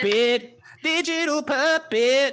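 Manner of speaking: hype call. Real, not acted. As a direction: drag out the name like a chant. Calling out the show name.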